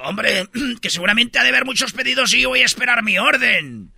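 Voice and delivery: lightly mock Castilian; a touch of Spaniard, hombre up front; Spanish from Spain accent. The Spaniard waiting for his order, lightly Castilian. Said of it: "Y dice el español".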